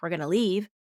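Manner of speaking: gentle, even-voiced limit; kind and compassionate. Parent setting a limit for an overwhelmed child, kind and compassionate. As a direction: state it calmly with compassion. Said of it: "you say it with kindness and compassion".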